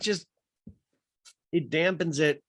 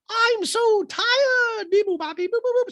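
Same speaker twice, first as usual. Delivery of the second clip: high weepy droid, slow; tired robot whimper with beep boops; 6 dB louder, slower than usual. Retold or imitated. Dorit robot voice, whiny.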